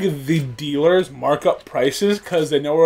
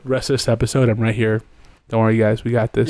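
lower, smooth on-mic croon; smooth close-mic voice; 5 semitones lower, faster than usual. Pretend. Teasing friend who wanted him closer, smooth low voice. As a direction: lean into the mic, low and easy. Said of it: "you think you sound all smooth and nice".

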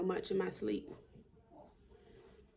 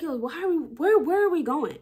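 higher and louder, panting; breathless alarm; 8 semitones higher, 6 dB louder than usual. Retold or imitated. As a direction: gasp out the question while hurrying. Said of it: "I was like".

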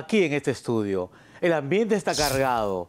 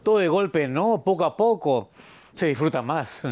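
slow, coaxing reassurance; slow, mock-tender calming; soothing calm; slower than usual. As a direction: settle him down gently, step by step. Soothing the agitated guest.

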